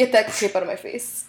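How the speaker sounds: lightly put-on movie-character voice; mock-indignant quote, lightly acted; Nacho Libre. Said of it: "Nacho Libre".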